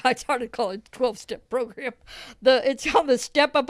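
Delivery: laughing at your own slip; chuckled aside; amused laughing. Real, not acted. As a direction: let a chuckle run into the words.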